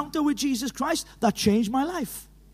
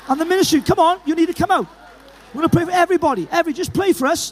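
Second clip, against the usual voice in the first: calling out; 3 semitones higher, 4 dB louder, faster than usual. Real, not acted. Calling people forward to pray.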